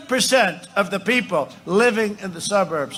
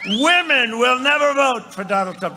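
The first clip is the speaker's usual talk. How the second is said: higher-pitched mock pundit pronouncement; 5 semitones higher than usual. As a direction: imitate a know-it-all predicting defeat. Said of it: "they're great geniuses".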